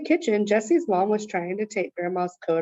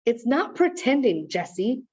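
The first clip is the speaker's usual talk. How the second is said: angry; 4 semitones higher than usual. Acted. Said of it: "Evan sounded angry".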